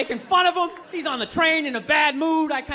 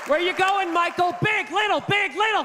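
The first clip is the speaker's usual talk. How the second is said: high, chanted size orders; hand-waving boss spitting out specs; mock boss demand; 4 semitones higher than usual. Jobs demanding phone sizes.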